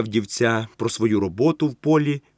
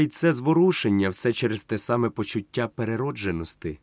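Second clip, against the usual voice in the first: ordinary delivery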